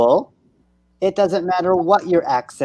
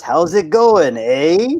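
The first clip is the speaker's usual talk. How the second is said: put-on light Canadian accent, rising on "eh"; a hint of stereotype Canadian; slower than usual. Teacher showing the cliché of how Canadians talk, light Canadian accent. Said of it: "What's a Canadian accent?".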